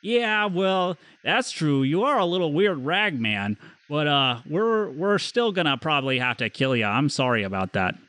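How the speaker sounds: apologetic would-be Canadian druid; bad Canadian accent. Druid apologizes to rag man for having to kill him, bad Canadian accent. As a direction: put on an amateur Canadian accent. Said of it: "What kind of accent is this?".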